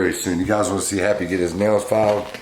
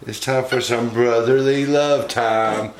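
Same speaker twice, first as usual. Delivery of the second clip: playful high pet voice; monkey voice; 6 semitones higher than usual. Retold or imitated. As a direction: speak for the monkey in a squeaky high voice. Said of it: "He says".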